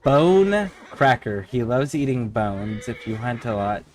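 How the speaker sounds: low, even read-out of game text; reading aloud. Acted. Streamer reads mount descriptions to viewers, low monotone read-aloud.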